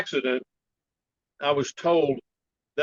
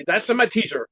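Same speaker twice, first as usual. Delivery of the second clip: higher Chinese-accented master imitation; imitated Chinese accent; 5 semitones higher than usual. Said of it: "I like your Chinese accent".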